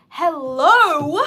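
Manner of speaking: loud, incredulous hello to commenters; exasperated hello. Real, not acted. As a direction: call out the chat, fed up. Annoyed at off-topic chat.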